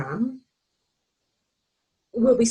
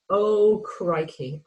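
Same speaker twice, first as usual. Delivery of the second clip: louder slow crikey; 3 dB louder, much slower than usual. Retold or imitated. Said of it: "that excitement of going".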